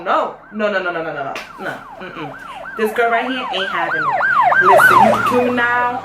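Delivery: squealing high don't-mess-with-me attitude; defiant sass. Retold or imitated. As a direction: shriek it like she dares anyone to try. Defiant refusal to the cop caller.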